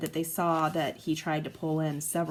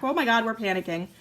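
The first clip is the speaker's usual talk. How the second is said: mock panic; 4 semitones higher, 3 dB louder, faster than usual. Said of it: "if she's like".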